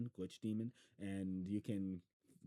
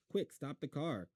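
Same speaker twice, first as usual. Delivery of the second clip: urgent call; 7 semitones higher, 3 dB louder than usual. Acted. Boy urgently shouting.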